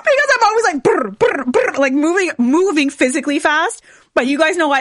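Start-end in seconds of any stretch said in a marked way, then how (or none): 0.8-1.7 higher trilled whirring noise; quick bursts of rolled brr; motor-like brr. Retold or imitated. Speaker mimicking herself always moving fast, motor-like brr.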